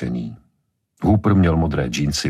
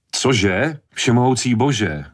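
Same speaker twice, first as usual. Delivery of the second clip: a higher, startled outcry; alarmed cry; 8 semitones higher, slower than usual. A narrator's reading. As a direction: panic over her soup. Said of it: "vykřikla Ellen". (Ellen v úleku vykřikne, vyděšeně)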